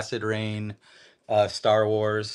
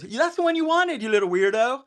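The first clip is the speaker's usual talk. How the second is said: high teasing mom voice; mock mom, sing-song; 12 semitones higher than usual. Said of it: "She goes".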